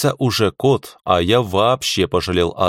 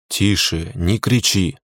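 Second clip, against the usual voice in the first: calm hush; slower than usual. Acted. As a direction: settle her down gently. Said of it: "как можно более спокойно сказал я".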